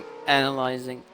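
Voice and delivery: fast repeated robot drone. Shown as a demonstration. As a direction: rattle it off like a machine. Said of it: "You sound like a robot going".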